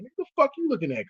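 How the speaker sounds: quick, high mock-aggressive jab; fast hostile challenge; retold hostile snap. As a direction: fire it off like a pissed-off teen. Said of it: "I was on that kind of time".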